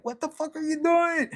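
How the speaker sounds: high, thin put-on snake voice, scandalized. Snake catches the cheating couple, high scandalized squeak. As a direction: squeak it out like a shocked cartoon snake. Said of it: "even the snake is like".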